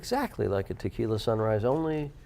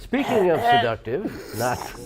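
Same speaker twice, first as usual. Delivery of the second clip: slow, higher sultry voice; seductive voice; 5 semitones higher, slower than usual. Pretend. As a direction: ham up a sultry radio voice. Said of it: "a seductive rapsy voice".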